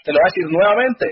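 the frog shouts after him, exasperated; frog yelling. Acted. Frog yells at the engineer to be kissed, mock shout. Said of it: "La rana le grita".

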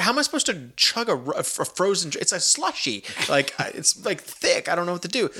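mock-helpless about chugging a slushy; incredulous whine. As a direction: complain it's impossible to chug. Retold protest over frozen drink.

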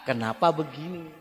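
soft, cool-headed question; calm asking. Shown as a demonstration. Wife raising a complaint to her husband, calm and gentle. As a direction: ask without any edge. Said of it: "Tapi dengan kepala, dingin".

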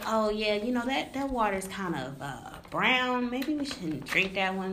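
imagined settlers' musing. Acted. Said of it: "They, they shoulda known, like".

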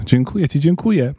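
high, delighted thanks; delighted little girl; joyful thanks. A narrator's reading. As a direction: thank with joy, pitch climbing. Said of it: "klasnęła z radości".

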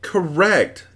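high, exclaimed approval; shout. A narrator's reading. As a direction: cry it out delightedly. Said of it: "shouted the dodecahedron".

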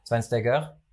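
put-on Schweinsteiger in a French accent; French commentator accent. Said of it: "der französische Kommentator hat immer".

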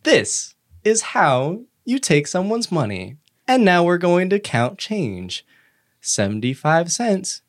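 put-on slow, sing-song voice talking down to kids; lightly voiced cartoon training video lady; kindergarten teacher voice. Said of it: "the two D sprite of what maybe is a woman".

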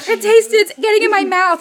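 high-pitched mock panic; imitated freak-out. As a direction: play him squealing in disgust. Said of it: "he's, like, freaking out".

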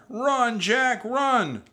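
high, loud frantic warning yell; crying out. A narrator's reading. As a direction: scream to make him flee. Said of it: "cried Annie".

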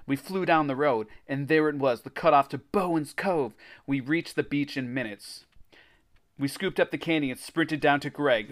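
animated adventure storytelling; story narration. A narrator's reading. Reader tells of racing to the beach, story narration. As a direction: read it like a kids' adventure book.

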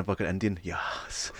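whispered, trailing off. Retold or imitated. Hungover self settling on an Indian, whispered. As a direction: breathe the last order out.

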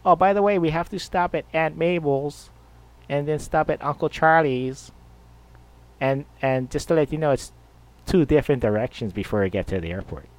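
high, hurried wife voice rattling off errands; wife reminding husband of extra stops, high and quick; nagging wife. Retold or imitated. Wife listing errands before the airport.

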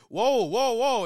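loud, high startled whoas; acted-out shocked exclamation; startled reaction. Acts out startled reaction to yell.

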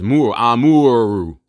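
"Amuru" drawn out slowly around Moor; slow, deliberate "Moor, Amuru"; sounded-out name. Shown as a demonstration. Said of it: "with the pronunciation and everything".

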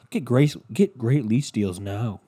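mock ad announcer. Imitates a car commercial's pitch.

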